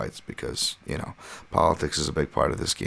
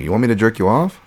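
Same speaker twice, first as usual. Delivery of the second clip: 1 retold taunt; 5 semitones higher, 6 dB louder than usual. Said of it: "I'm like".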